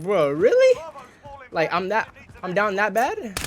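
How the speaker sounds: wounded, retold "are you serious"; incredulous disbelief. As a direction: react as if friends have gone too far. Retold disbelief at being mocked online.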